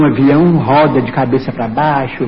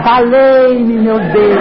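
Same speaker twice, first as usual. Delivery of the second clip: high, drawn-out mock cry to God; retold cry for help; 5 semitones higher, much slower than usual. Passenger retelling his screams on the plane, mock yell. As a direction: wail it out as a retold plea. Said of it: "Mas comecei a gritar".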